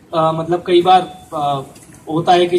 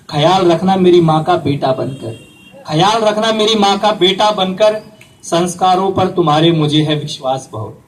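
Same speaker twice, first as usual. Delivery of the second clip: poem recitation. Acted. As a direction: recite each line, then let the last fall away. Recites farewell verses of the letter. (कविता पाठ, अंत में धीमा स्वर)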